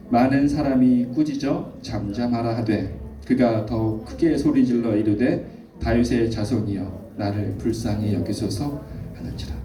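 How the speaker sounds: slow, measured verse reading; scripture reading. A narrator's reading. Pastor leading the congregation through the verse, measured reading. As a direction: read the verse out slowly for all to follow.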